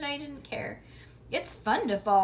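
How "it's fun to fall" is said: silly. A narrator's reading. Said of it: "I said, real stupid".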